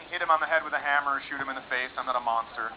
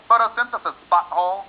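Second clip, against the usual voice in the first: louder, higher know-it-all snap; smug retort; 4 semitones higher, 6 dB louder than usual. Acted. Smart egg snubbing the cocky sperm, smug and louder. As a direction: toss off the word like a smug genius. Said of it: "Her eggs would be all smart".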